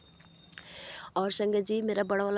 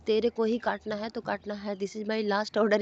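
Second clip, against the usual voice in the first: stern guru order; slower than usual. Pretend. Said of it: "जैसे आप discipline में बोलते हो वैसे ही बोलना".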